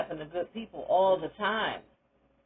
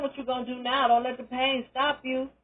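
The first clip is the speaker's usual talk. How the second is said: a lightly voiced therapist pressing, pitched up; pushing therapist, higher; 5 semitones higher than usual. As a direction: nudge them forward, raised and firm. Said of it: "Somebody to tell me the plan".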